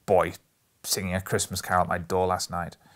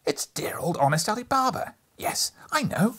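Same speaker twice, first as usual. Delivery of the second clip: put-on high, loud, breathless childlike excitement; between laughing and crying; 4 semitones higher, 4 dB louder than usual. A narrator's reading. Scrooge gushing over storybook heroes, half laughing, half crying. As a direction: gush with tearful glee. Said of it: "in a most extraordinary voice, between laughing and crying".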